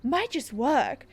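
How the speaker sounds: lightly voiced theatrical official; earnest councilman. Councilman sending Cassandra to hurry, earnest and mildly dramatic. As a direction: urge the hero on, settling into solemn hope.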